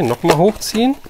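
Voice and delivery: ordinary talk, nothing marked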